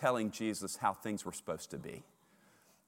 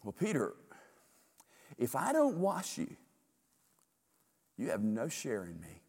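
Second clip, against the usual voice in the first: tender Jesus. Acted. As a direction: speak to him kindly but firmly. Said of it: "Jesus is tender".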